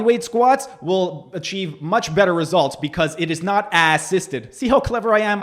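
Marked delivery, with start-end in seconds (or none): 2.8-4.5 slow, punching ASS in "assisted"; stress on ass in assisted. Shown as a demonstration. Coach mocking the clip, slowly stressing ASS in "assisted". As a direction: lean on the ass of "assisted" with a slow, deliberate pace. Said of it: "I emphasized ass and assisted".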